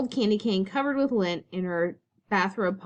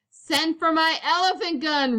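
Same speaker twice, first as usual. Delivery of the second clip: roar; 8 semitones higher, 4 dB louder than usual. A narrator's reading. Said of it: "roared Uncle Theodore".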